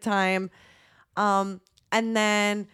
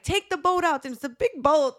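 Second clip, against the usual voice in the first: imitating drunk friend; 6 semitones higher than usual. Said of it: "And Mel kept saying".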